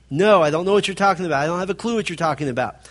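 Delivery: fast, insistent denial; repeated denial. Acted. Peter denying it over and over, fast and insistent. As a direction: rattle off the denial quickly. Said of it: "He's saying over and over again".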